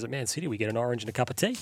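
mock deadpan. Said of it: "the guy apparently deadpanned".

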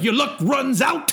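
high, slow mock metal shout; metal singer growl. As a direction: belt it like a metal frontman. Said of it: "the grown ass man version".

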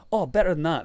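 high, loud promise of a treat; acted excitement. Consul about to produce Guinness, excited. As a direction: imitate an official bursting with a secret.

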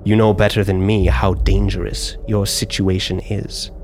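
a hint of a scheming drow lady, offering a deal; calm, knowing bargain; lightly voiced drow noble. Drow noblewoman offering an alliance to the player, lightly voiced.

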